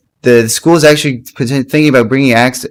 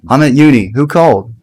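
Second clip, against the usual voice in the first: understated impression. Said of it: "I'm doing a little understated kind of".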